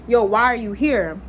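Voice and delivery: imitating his put-off reaction, understated; mildly disgusted challenge to a visitor; disgusted attitude. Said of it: "like he was disgusted".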